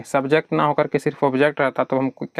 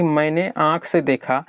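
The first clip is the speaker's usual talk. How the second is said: slow, stressing से; slower than usual. Shown as a demonstration. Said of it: "ये कहना थोड़ा सा अजीब लगता है".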